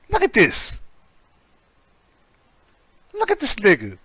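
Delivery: high, loud mocking disbelief; squealing disbelief at a face; incredulous mocking. Real, not acted. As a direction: point and jeer at the photo. Mocking a mugshot, laughing.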